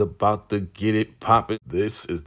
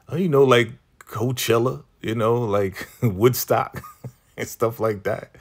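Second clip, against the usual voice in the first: giggling through the words, higher and louder; laughing excitement; 5 semitones higher, 4 dB louder than usual. Retold or imitated. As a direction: laugh as you gush about festivals. Laura imagining a festival.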